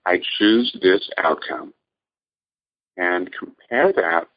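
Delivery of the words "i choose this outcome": steady and settled, choosing from the body; calm choosing voice. Shown as a demonstration. Coach demonstrating the relaxed choosing voice, calm and settled. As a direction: say it as a calm, grounded choice. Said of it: "the voice that chooses to be in the body".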